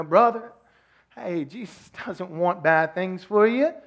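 light Texan drawl, slow and upbeat like a TV preacher; Texas drawl preacher. Retold or imitated. Mocking a famous Texas preacher in a mild Texas drawl. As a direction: lean into a gentle Texas drawl, selling good news. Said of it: "I know how to do the draw".

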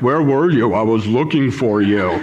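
a hint of an unbothered kid asking where you were; calm kid voice. Lost boy calmly asking his father where he was, lightly voiced. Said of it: "he's got this kind of, like, deep voice".

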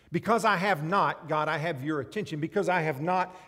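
loud, pleased with himself before God; smug loud prayer; self-righteous prayer. Acted. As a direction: boast your way through the prayer.

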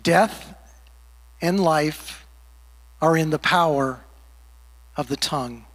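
"Death", pause, "and life", pause, falling low on "of the tongue"; deliberate repeat. Real, not acted. Preacher repeats the anchor verse to the congregation, deliberate and weighty. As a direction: weigh each phrase, pausing after "Death" and "life". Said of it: "I just wanna say that again".

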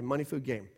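"money, food, game" with no "and"; clipped list without joining words; bare list. Shown as a demonstration. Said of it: "I don't use the phrase "and".

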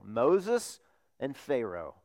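slow emphasis. Shown as a demonstration. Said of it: "two figures in the Old Testament that are unforgettable".

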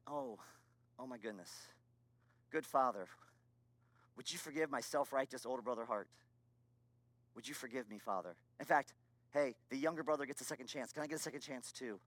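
subdued, humbled prayer in a low voice; retold tearful prayer. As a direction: quietly beg a father's forgiveness, with long pauses. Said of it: "I just, I cried, I wept".

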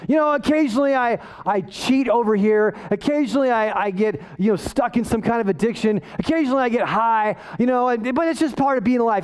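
breezy shrug-it-off imitation; casual mock excuse-making; mock indifference. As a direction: make excuses as if it hardly matters. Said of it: "Paul isn't indifferent about his own sin".

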